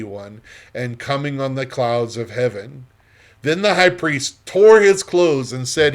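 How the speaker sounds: expressive, measured Bible narration; scripture reading. A narrator's reading. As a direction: read scripture aloud with emphatic phrasing. Reads scripture aloud before teaching.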